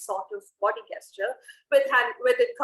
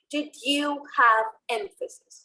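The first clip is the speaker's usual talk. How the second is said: "you" stressed and held in a slowed question; slower than usual. Shown as a demonstration. Coach demonstrating emphasis, "you" stressed and drawn out. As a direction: lean on the word "you". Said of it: "You was the emphasis".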